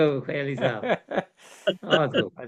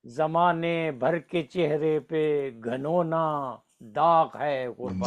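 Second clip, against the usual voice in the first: stately nazm recitation; much slower than usual. Acted.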